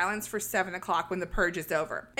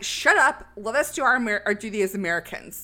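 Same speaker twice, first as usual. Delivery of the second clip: mock angry shout; 4 dB louder than usual. Grace snapping, retold.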